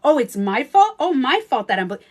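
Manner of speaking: loud, high, indignant pleading; hammed-up angry shouting at the ex; mock outraged yelling. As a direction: chase them down shouting you're bleeding. Acting chasing the one who cut you.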